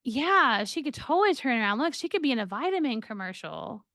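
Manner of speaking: mildly sarcastic, quick mock agreement; a light dry jab at the doctor's hope; understated sarcasm from the counselor. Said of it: "like, being sarcastic".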